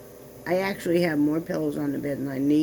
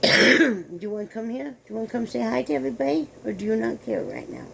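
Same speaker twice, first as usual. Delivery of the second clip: coaxing the dog; 3 semitones higher than usual. Real, not acted. Calling the dog over.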